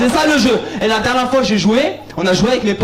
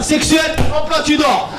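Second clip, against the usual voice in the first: mock angry father; 5 semitones higher, much slower than usual. Acts father cutting son off.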